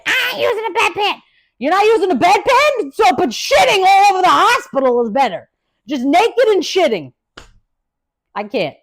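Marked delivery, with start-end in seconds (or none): 0.0-7.1 high, louder sarcastic retort; mock indignation. Mocking roommate who refused the bedpan, high sarcastic retort. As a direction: throw the question back in disbelief.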